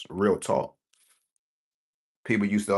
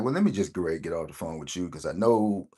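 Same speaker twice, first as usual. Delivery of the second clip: mother's hurried voice; 3 semitones lower, 3 dB quieter than usual. Retold or imitated. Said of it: "I could hear it in my mother voice".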